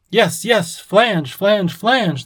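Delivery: high excited yell, each flange tossed out with a falling tune; yelling at the top of his voice. A narrator's reading. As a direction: shout it out in glee across the hall. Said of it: "the king yelled at the top of his voice".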